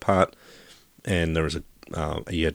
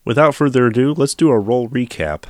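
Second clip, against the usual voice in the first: big energetic show intro; excited; 6 semitones higher, 7 dB louder than usual. Acted. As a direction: announce it with gusto. Hammed-up segment intro.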